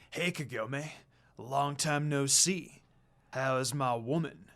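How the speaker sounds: slow, cocky drawl with a grin; cheeky grin. A narrator's reading. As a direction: swagger in, smug and teasing. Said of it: "with his cheekly grin".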